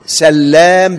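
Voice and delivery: سلام with a doubled L, sallam; سلام with a held, stressed L. Shown as a demonstration. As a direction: lean on the L in سلام. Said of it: "بتشديد اللام".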